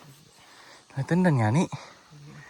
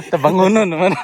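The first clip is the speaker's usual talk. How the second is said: laughing; 5 dB louder than usual. Real, not acted. Laughing at winded companion.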